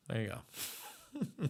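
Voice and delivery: slow, laughing through the words. Real, not acted. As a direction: let it dissolve into a laugh. Laughing at the clip.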